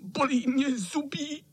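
high, whimpering sick cat; old cat whines to the boys that he is sick; whining cat. A narrator's reading. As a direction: whine like a poorly old tomcat. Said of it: "zakňovral kocour".

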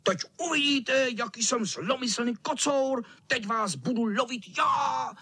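vysoko, výhružně; zasípat hrozbu; syčící kocour. Acted. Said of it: "sýpal kocour". (zlomyslný kocour sípe hrozbu klukům)

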